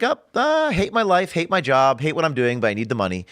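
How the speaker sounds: a lightly voiced jaded agent, pitch jumping up at first; mock weary agent. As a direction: mimic an agent who hates his job. Voicing weary agents in retelling.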